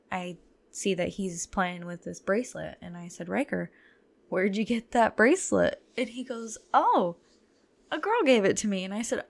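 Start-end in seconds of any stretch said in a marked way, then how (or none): 3.3-5.8 loud call across the lot. Retold or imitated. Mom calling son in parking lot. 6.7-8.8 son's voice. Retold or imitated. Son answering loudly.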